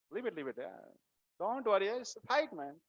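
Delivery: offhand, dismissive brush-off; breezy, unbothered reassurance; very casual. Acted. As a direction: shrug the worry away lightly. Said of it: "Very casually".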